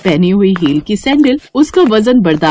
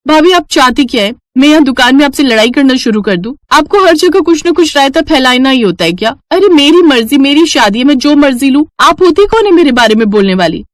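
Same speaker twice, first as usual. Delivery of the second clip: angry retort; 5 semitones higher than usual. Acted. Bride fighting back at teasing sister-in-law, mildly angry. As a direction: snap back in a quarrel.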